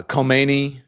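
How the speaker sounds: put-on "Khomeini" said ko-MAY-nee, the old way; older pronunciation. Shown as a demonstration. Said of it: "That's how they pronounce it".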